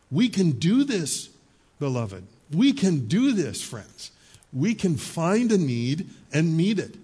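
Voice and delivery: slow, emphatic encouragement; rally the flock with slow, lifted words; rallying call. Real, not acted. Preacher to congregation, slow and emphatic rally.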